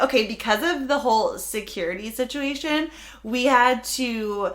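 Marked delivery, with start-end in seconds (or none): none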